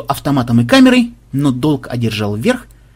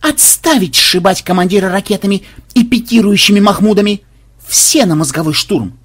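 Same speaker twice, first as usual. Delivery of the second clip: high, raised commander's outburst; bellowed order; 6 semitones higher, 3 dB louder than usual. A narrator's reading. Xenobyte forbidding rockets at their commander, loud command. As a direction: bellow the order after a big breath. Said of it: "шумно вобрал в себя воздух".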